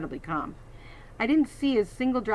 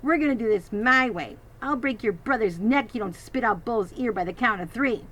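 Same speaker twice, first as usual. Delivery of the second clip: menacing threat; 3 semitones higher, 4 dB louder than usual. Acted. Bully threatening the sister.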